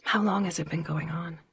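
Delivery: hushed, careful question; whispering. A narrator's reading. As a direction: whisper it gently in the dark. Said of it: "I whispered".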